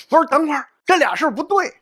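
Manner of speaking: put-on grumbling old teacher. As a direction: grumble it like a confused old professor. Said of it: "有一个男性教师就嘟囔嚷了起来".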